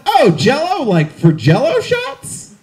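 high "oh", slow suggestive question; lightly voiced employee, drawing out the question; store employee. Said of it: "To which he responded".

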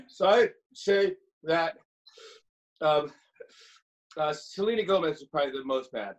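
talking while inhaling; breathing in through the words; burned tongue. Real, not acted. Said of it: "talk by inhaling only".

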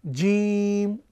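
jim said slow and firm; firm strong Arabic jim. Shown as a demonstration. Teacher showing students a firm Arabic letter. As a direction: teach the letter জিম with a solid sound. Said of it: "শক্ত এবং মজবুত আওয়াজে".

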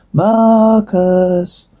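long-drawn demon calling a name; demonic voice. Acted. Demon calling to the priest, demonic voice. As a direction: draw the name out like a taunting demon. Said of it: "Demonic voice".

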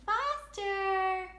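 loud high model of Foster; modeled word. Shown as a demonstration. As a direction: say Foster big and clear for baby.

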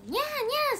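high, loud double meow; cat meowing. Retold or imitated. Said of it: "しか鳴かへんくない？". (猫の鳴き真似、高く強めに)

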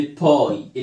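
"باي" with a drawn-out eye vowel; long i. Shown as a demonstration. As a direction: stretch "باي" like pie. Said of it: "بتعمل لونج آي".

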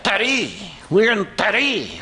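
"Paris" said as pa-REE; French pronunciation. Shown as a demonstration. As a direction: silent s in "Paris", stress at the end. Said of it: "that's how they say it".

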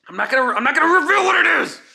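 high, loud, fast tease; excited shout. Real, not acted. Teasing shout about secret.

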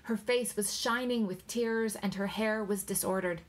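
plain reading voice

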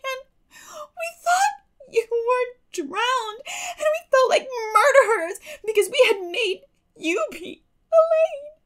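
put-on high girl's voice, sobbing and laughing; a young girl weeping with relief. A narrator's reading. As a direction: cry it out in tearful relief. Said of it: "weeping with relief and delight".

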